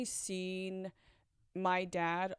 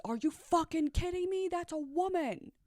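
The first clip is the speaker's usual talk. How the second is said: high, startled mock yell; a stranger shouting in disbelief; shocked outburst; 9 semitones higher than usual. Bystander seeing her pulled down, shocked yell. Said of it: "All I hear is".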